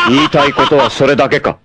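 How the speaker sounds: fast, laughing sneer; mocking laugh. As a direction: laugh the line off with contempt. Villain mocks the hero.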